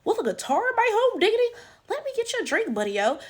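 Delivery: high, soft mock gee-whiz voice; put-on high, quiet golly-gee voice; mock folksy white woman. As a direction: imitate her in high, hushed, hammed-up folksiness. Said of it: "cousin, she's like".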